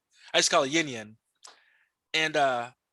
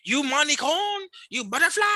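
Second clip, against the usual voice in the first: broken English; 10 semitones higher than usual. Retold or imitated. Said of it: "You don't drink?".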